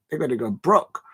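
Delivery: amateur South London patois; attempted patois accent. Streamer joking about a club's spending, attempted patois. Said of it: "I can't do a patois accent".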